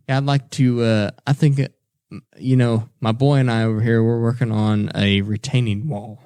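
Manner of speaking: lightly imitated Southern accent; very slight Southern tang. Dad talking to old hardware store man, slight Southern accent. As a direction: put on just a hint of Southern. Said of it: "It's, like, very slight".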